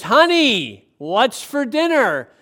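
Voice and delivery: husband shouting right beside his wife; loud in her ear. Retold or imitated. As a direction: bellow it slowly into her ear. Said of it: "right in her ear".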